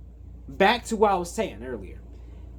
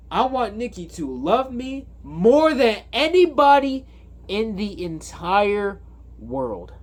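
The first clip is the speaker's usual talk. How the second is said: higher and louder, pleading the wish hard; intense wish; 4 semitones higher, 3 dB louder than usual. Retold or imitated. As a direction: beg for it with everything. Bear makes his wish.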